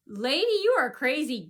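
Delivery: loud, exasperated telling-off; retold outburst. Car owner to the officer, imagined telling-off. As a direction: snap it as the imagined retort. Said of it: "I was about to say".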